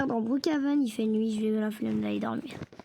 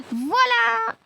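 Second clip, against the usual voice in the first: high, loud ta-da; triumphant voilà; 10 semitones higher, 6 dB louder than usual. Real, not acted. Gamer finishing his tutorial for viewers, proud ta-da. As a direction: announce it proudly.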